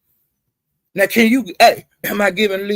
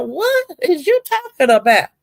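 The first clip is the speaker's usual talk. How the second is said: retold heated comeback; 9 semitones higher than usual. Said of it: "And I'm saying".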